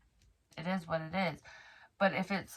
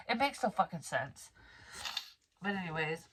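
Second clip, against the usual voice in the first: ordinary delivery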